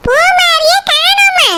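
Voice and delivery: drawn-out disbelieving repeat; slow stunned echo. Acted. Grandmother hears the child is missing, slow disbelief. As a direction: repeat it slowly, unable to believe it. Grandmother echoes shocking news.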